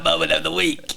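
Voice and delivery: segment announcement. Pretend.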